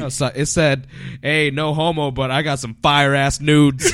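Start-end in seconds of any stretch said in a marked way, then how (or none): 1.2-3.9 mock tweet voice. Reading out a friend's tweet.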